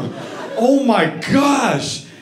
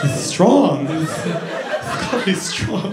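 strained whisper; 3 semitones lower, much slower than usual. Acted. Jittery from strong coffee.

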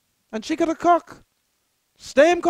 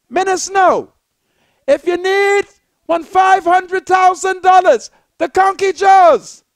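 loud preacher's call to the wealthy; raised preaching voice; fervent shouting appeal; 3 semitones higher, 4 dB louder than usual. Acted. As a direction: hammer the appeal home.

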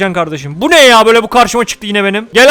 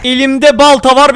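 slow threat; 4 semitones higher, 4 dB louder, slower than usual. Shown as a demonstration.

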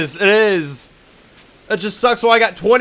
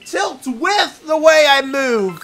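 loud, higher, furious rant at the game; real angry yelling; 5 semitones higher, 4 dB louder than usual. Real, not acted. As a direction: yell at the screen in frustration. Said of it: "This is really making me angry".

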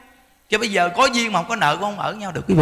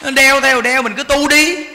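higher, louder insistence; forceful answer; 6 semitones higher, 4 dB louder than usual. Real, not acted. Preacher urges the congregation, high and loud. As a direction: drive the answer home.

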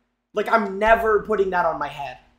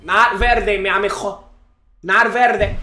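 pleading shout; 6 dB louder than usual. Real, not acted. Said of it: "begging the pack for purple".

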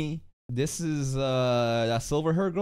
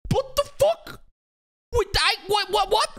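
stunned disbelief; 14 semitones higher than usual. Real, not acted. Stunned by the reveal.

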